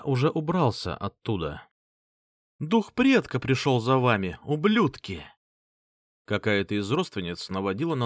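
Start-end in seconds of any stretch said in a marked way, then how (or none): 2.6-5.2 shouting. Acted. Relative shouting to panic mercenaries.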